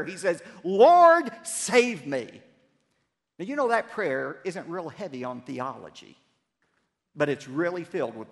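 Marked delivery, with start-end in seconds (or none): 0.6-2.4 a high, loud scream for help; desperate cry. Acted. Sinking Peter crying out to the Lord, desperate shout. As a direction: cry out as if you are going under. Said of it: "he cries out this prayer".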